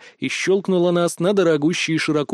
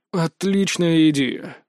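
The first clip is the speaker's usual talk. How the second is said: slow, yawning through the words; sleepy yawn; slower than usual. Acted. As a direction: say it half-asleep, mid-yawn. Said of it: "сонно зевнув". (сонно, сквозь зевок)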